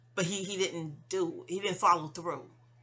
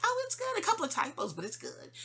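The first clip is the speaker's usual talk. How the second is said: imitating mom; 10 semitones higher than usual. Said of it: "You was like".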